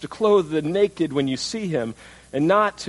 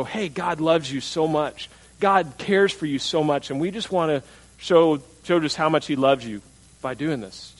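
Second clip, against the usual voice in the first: sincere. Retold or imitated. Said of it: "what if our teenagers go".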